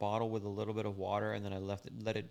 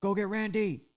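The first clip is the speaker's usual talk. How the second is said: higher, louder mocking parrot of the threat; mocking echo; 9 semitones higher, 6 dB louder than usual. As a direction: throw his words back at him, teasing. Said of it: "So he's like".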